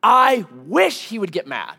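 mildly acted wife's outburst, leaning loudly into the wish; retold exasperated wife. Wife to marriage counselor about her level husband, retold exasperation. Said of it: "She goes".

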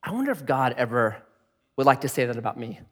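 low, soft musing; subdued, reflective inner voice; private thought. Retold or imitated. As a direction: wonder it quietly to yourself. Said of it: "I sat there and I thought".

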